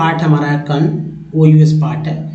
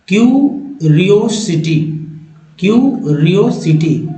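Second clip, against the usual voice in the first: slow, chunked into three beats; syllable by syllable; slower than usual. Shown as a demonstration. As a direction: read it slowly in three parts. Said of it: "मात्र तीन बार में इसे पढ़ा जा रहा है". (तीन हिस्सों में धीरे)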